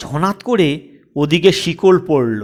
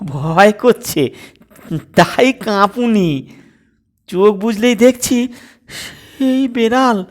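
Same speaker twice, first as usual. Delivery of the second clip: put-on scared girl stammering; 5 semitones higher than usual.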